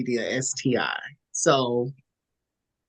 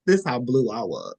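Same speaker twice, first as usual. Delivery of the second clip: normal talking voice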